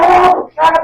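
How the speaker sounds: high, loud mock yell; retold shouting. Retelling the fight over her laughing, shouted. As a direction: yell it as an imitated outburst.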